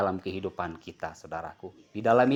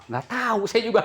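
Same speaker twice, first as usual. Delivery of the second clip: a lightly voiced market seller, higher; vendor's reply; 9 semitones higher than usual. Preacher quoting the chili seller's shrug, lightly voiced. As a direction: toss it off like a puzzled vendor.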